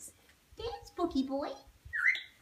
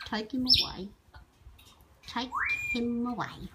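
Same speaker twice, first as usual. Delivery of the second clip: a bit lower, grumbling pet voice; lightly voiced grumpy bird; 3 semitones lower than usual. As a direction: speak for the sulky bird, complaining. Owner voices the cranky bird.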